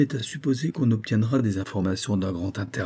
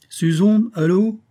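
raised, higher call to be heard on the line; a lightly raised telephone hail; calling down the phone; 10 semitones higher, 5 dB louder, slower than usual. Acted. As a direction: call her name into the receiver to get her attention.

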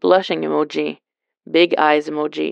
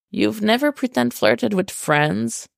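exasperated; 5 semitones higher than usual. Acted. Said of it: "threw his hands up exasperatedly".

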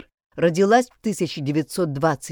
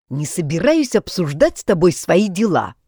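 grumpy; 6 dB louder than usual. Acted. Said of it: "сварливо ответил брат".

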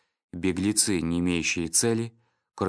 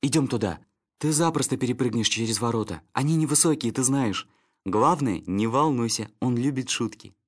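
higher, coaxing little dog; eager dog Snitter; 3 semitones higher than usual. Acted. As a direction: egg on a friend eagerly.

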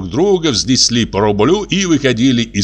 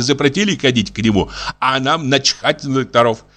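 plain reading voice

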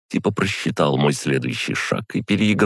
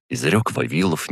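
ordinary delivery, nothing marked

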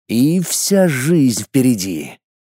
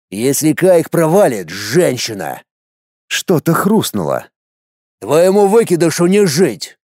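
threatening warrior; 3 semitones higher than usual. Acted. Warrior threatens to kill boy.

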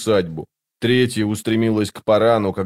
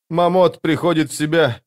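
high-pitched despair; desperate woman's voice, pitched up; 7 semitones higher than usual. A narrator's reading. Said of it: "с отчаянием проговорила женщина".

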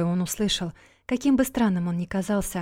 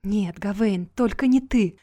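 whisper sobbing; 4 dB louder than usual. Acted. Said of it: "она шептала сквозь слёзы".

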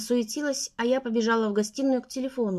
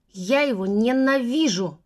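"Я его ненавижу" slow, louder, each syllable hammered; 4 dB louder, slower than usual. A narrator's reading. Sister spelling out her hatred syllable by syllable. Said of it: "по слогам отчеканила она".

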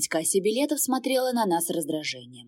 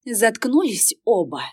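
loud, slow angry snap; hissed order; 3 semitones higher, 6 dB louder, slower than usual. Acted. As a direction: shut them both up. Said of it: "прошипела я". (раздражённо, громко и медленно)

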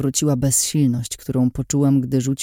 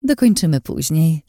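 melodious voice. Acted. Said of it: "melodyjnym głosem".

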